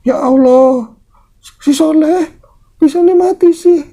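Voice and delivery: high, loud cry of disbelief; shocked. Acted. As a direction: act out an old woman stunned by news of a death. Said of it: "Itu saking kagetnya gitu". (seruan kaget, nada melengking tinggi)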